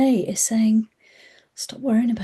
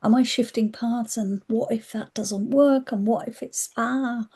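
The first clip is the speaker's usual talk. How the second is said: higher, fretful what-ifs; spiralling worry, voice pitched up; anxious inner voice; 5 semitones higher than usual. Retold or imitated. Looping to herself, pitched-up anxious worrying. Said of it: "caught in a loop of going".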